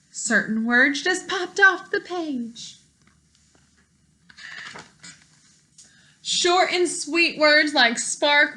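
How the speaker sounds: lively storybook read-aloud for a class; reading to children. Acted. Teacher reading a picture book to her class, lively storytime voice.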